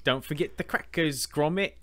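high-pitched cartoon quote; Wallace impression. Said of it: "we quote to an unhealthy level".

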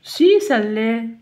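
loud, very slow obstinate reply; stubborn insistence. Acted. Stubborn lady refuses the host's advice, slow and loud. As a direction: plant your feet on each word. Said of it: "s'entêta Madame Têtue".

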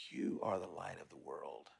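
hushed, half-voiced affirmation; soft whisper. Shown as a demonstration. Pastor leads the congregation in a soft whisper. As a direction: breathe it softly to yourself. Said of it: "So let's whisper that to yourself".

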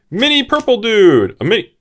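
high, loud, happy squeal at the card; delighted. Real, not acted. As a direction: cheer for the tiny purple guy.

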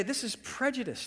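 high-pitched mock complaint. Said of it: "He raised his voice".

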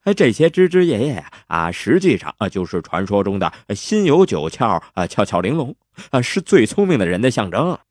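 lightly hammed-up hero improvising an explanation; a hint of slippery, quick-talking charm; glib excuse-maker. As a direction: bluff through it with hesitant fillers.

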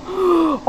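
sharp intake of excited surprise; excited gasp; startled gasp. Real, not acted. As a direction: gasp at the reveal. Startled reaction to trailer opening.

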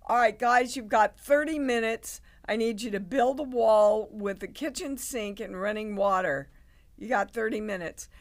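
director calling out. Retold or imitated. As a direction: shout the deadline across the set.

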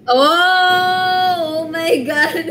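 high, drawn-out squeal of oh; giddy, high-pitched real reaction; delighted shock. Real, not acted. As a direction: gasp it out high, breaking into laughter. Reacting to a flirty pickup line.

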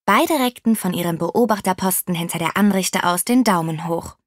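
usual speaking voice

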